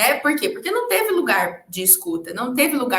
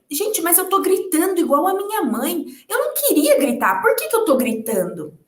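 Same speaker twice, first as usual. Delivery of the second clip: retold inner thoughts; 4 semitones higher than usual. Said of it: "Eu dizia".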